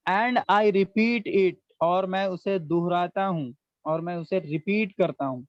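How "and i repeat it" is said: very slow, each word spaced out; slow model sentence. Shown as a demonstration. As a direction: dictate "And I repeat it" slowly. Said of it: "teacher models English slowly". (धीरे-धीरे, हर शब्द अलग)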